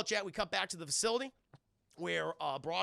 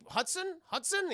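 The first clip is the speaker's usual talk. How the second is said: calling out; 11 semitones higher than usual. Retold or imitated. Robbins calling for him.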